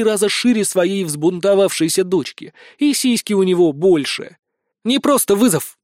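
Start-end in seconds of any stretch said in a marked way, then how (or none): 4.8-5.8 trembling voice. A narrator's reading. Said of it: "бурчит Нелли с дрожью в голосе".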